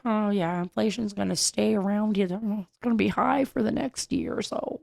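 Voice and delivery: mock Janet Yellen. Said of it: "I don't know why I make her talk like that".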